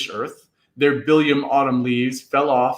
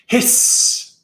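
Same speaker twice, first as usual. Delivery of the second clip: hissing blade. A narrator's reading. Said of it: "The blade swung down".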